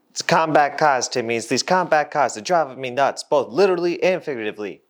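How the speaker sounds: put-on corny old-time boss complaining; 1950s boss talk. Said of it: "Stop talking like you're from the fifties".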